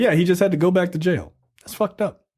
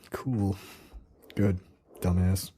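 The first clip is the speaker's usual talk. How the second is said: mock Jamaican patois teasing a rapper; Jamaican accent; 9 semitones lower, 10 dB quieter than usual. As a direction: fake Jamaican accent, low and soft. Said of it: "Fake ass Jamaican accent".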